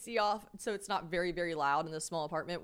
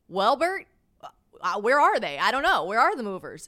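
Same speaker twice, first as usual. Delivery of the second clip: exasperated; 3 semitones higher, 9 dB louder than usual. Retold or imitated. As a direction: throw the question back at him. Exasperated answer to Bert.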